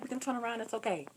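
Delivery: soft, retold motherly calming; gentle reassurance. Mom reassuring lost daughter, softly. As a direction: soothe her, keeping it soft.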